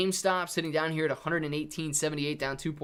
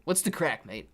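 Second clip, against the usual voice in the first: attempted English accent. Shown as a demonstration. Streamer trying Irish slang for chat, English accent. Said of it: "I got you with an English accent".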